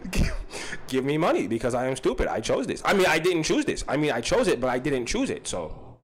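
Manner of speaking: put-on halting foreign child voice with rising endings; foreign little kid. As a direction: play a stubborn foreign kid in broken English. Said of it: "but as a foreign little kid".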